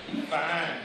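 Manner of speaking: lightly voiced admiring girl; mock-admire him the way a girl would; preacher voices a girl's admiring remark; imitating a girl. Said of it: "some little black girl's gonna say".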